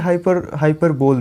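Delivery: हाइपरबोल as hyper-bowl, r sounded; common mispronunciation. Retold or imitated. Teacher quotes what many people say, हाइपरबोल as hyper-bowl. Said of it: "ये हाइपरबोल नहीं होता है".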